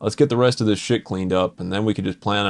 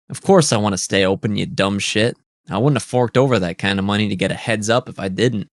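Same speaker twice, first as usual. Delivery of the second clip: louder, impatient put-down; irritated snap; 5 dB louder than usual. Acted. Phelps snapping at the caller on the phone, louder. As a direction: bite at him like he's dim.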